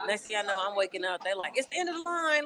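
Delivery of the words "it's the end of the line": bus driver. Retold or imitated. Bus driver voiced waking her.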